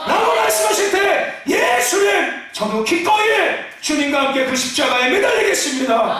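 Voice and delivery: shouted, high preaching cry; full-force preaching. Acted. Pastor shouting to the congregation, full-force preaching. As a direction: preach it out at the top of your voice.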